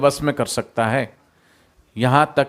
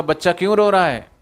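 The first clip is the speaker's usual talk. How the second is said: mock loud question; 6 semitones higher than usual. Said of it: "मैं जोर से बोलूँ".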